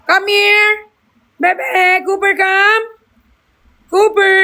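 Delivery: high, insistent calls to the dog; calling the dog. Real, not acted. (paulit-ulit na tawag sa aso nang mataas ang boses)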